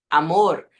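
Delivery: Amor ending in a tapped r; slight final vibration. Shown as a demonstration. Teacher showing syllable-final R, slight vibration. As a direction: flick the tongue on Amor's last sound. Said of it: "vibraçãozinha no final".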